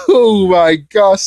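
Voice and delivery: slow, drawn-out exclamation after laughing; amused dismay. Real, not acted. Recapper appalled by his own joke, amused dismay. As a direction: groan it out slowly through leftover laughter.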